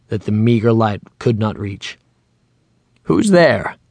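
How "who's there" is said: startled shout into the dark, higher; frightened old man shouting at the shadows. A narrator's reading. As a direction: call out sharply at a noise in the corner. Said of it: "he shouted".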